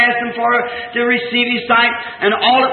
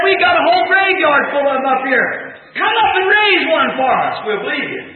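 a hint of a sneering priest, higher and pushed; mocking priest; 4 semitones higher than usual. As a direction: taunt him from up on the hill. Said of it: "It was the priest".

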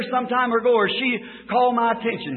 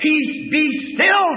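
commanding shout; 3 semitones higher, slower than usual. Acted. The preacher voicing Jesus calming the sea, slow shout. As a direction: shout it out over the storm. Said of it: "looked up and said".

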